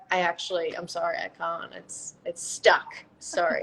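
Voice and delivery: mock-apologetic Texan accent; stuck in a Texan accent, sorry not sorry. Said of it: "I wouldn't get out of my Texan accent".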